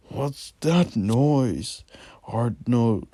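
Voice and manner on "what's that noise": startled. Acted. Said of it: "Arnold exclaimed".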